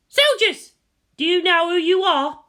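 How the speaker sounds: high, loud call to the troops; rallying shout. Acted. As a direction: rouse the soldiers on parade. Girl addressing soldiers.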